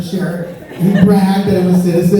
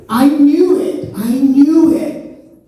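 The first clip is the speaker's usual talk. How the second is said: slow triumphant; 5 semitones higher, much slower than usual. Real, not acted.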